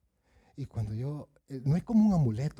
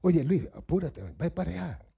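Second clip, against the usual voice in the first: louder, pressing urging; insisting; 3 semitones higher, 4 dB louder than usual. Shown as a demonstration. Preacher shows how one hurries Luis along, insisting. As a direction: hurry someone along, insistently. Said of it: "¿Cómo insiste uno?".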